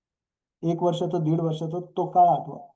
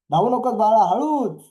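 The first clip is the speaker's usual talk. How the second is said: higher, louder parental warning; anxious parent; 4 semitones higher, 5 dB louder than usual. Acted. Parent warns running toddler, acted cautioning call. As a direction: caution a small child, acted. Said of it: "कोण कोण बोललंय असं बाळाला".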